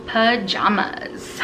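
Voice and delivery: slow careful word. Shown as a demonstration. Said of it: "say these words to see if you have an accent".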